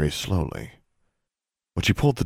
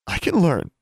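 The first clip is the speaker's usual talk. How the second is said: put-on high, louder girl insisting; insistent girl; 12 semitones higher, 4 dB louder than usual. A narrator's reading. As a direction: insist in a high young girl's voice. Darla insists to John.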